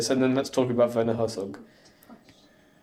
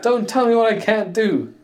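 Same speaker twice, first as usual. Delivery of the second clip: higher, slow mock defiance; Locke impression; 7 semitones higher than usual. Recognising the line from the show, slow imitated defiance. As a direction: imitate a character's drawn-out catchphrase. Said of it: "that's what Locke says".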